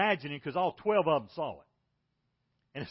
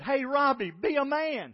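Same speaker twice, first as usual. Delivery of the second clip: stern dad; 9 semitones higher, 6 dB louder, slower than usual. Retold or imitated. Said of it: "So I finally just said".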